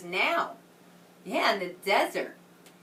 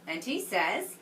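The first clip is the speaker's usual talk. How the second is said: put-on reading to children. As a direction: read it like a picture book to a class. Reads story to children.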